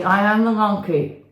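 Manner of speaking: unconvincing monkey voice; half-hearted monkey voice; weak monkey voice. Shown as a demonstration. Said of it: "Tell me more convincingly".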